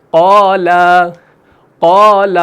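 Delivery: recited قال, full qaa and light laa; heavy-then-fine vowels in قال; thick then thin alif. Shown as a demonstration. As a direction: round the first aa of قال, thin the second. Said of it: "الف سے پہلے پر حرف ہو تو الف پر".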